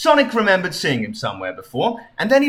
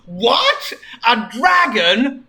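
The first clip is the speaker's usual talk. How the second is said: mock surprise; 6 semitones higher, much slower than usual. Sonic surprised.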